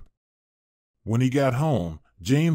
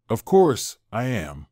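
happy. Acted. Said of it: "Lena said happily".

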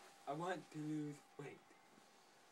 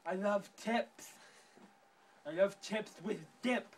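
angry rant; 2 semitones higher, 6 dB louder than usual. Acted. Character rants about being mocked.

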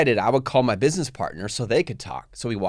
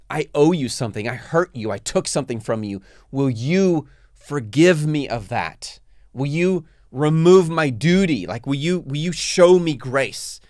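humble request. Shown as a demonstration. Asking someone you hurt for grace, humble plea. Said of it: "It's a humble request".

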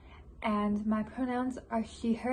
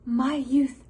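loud outburst climbing higher and faster; exasperated despair; 4 semitones higher, 7 dB louder than usual. Acted. Composer facing thirty with nothing to show, exasperated outburst. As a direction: build to a pressured, high question.

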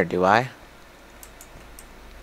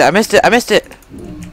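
higher, slower, louder panicked wail; panicked cry; 8 semitones higher, 5 dB louder, slower than usual. Real, not acted. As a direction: stretch it out in alarm. Near miss while playing.

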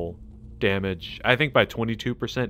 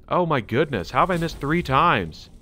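higher, rising frustration; exasperated disbelief; 5 semitones higher, 3 dB louder than usual. Real, not acted. Gamer missing shot after shot, exasperated. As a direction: build from exasperated to high, loud disbelief.

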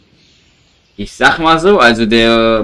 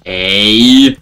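indignant shout; 7 dB louder than usual. Real, not acted. Zombie annoys him.

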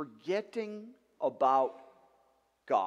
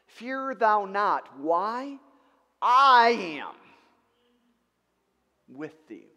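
slow, loud proclamation of God's words; thundering divine command; booming quote; 4 semitones higher, 12 dB louder, slower than usual. Acted. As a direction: proclaim it like God speaking. Preacher quoting God's command.

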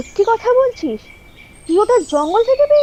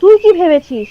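angry quarrel; 3 semitones lower, 5 dB louder than usual. Acted. Quarrel, threatening Shubhra.

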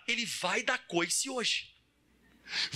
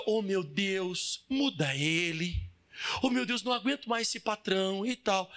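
mock prayer; 5 semitones lower than usual. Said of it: "Aí você ora".

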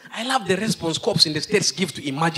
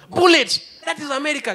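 excited shout; 7 semitones higher than usual. Acted. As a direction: blurt it like an action movie. Hyping US police shootout.

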